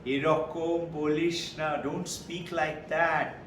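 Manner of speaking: slow, soft Bengali rebuke; calm him down gently; a quiet, slow "don't speak like that"; gentle rebuke. Retold or imitated. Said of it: "He says in Bengali".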